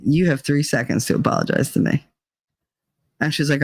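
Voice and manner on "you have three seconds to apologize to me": low, calm, steady warning; icy calm ultimatum; calm threat. Retold or imitated. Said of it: "But I was real calm".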